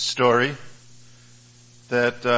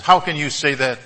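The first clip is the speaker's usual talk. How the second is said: enraged colonel; 2 semitones higher than usual. Acted. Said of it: "even more enraged".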